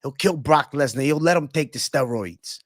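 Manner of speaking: butcher the fighter names with gusto; light Joey Diaz rant; Joey Diaz saying names. Retold or imitated. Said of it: "Joey Diaz clip".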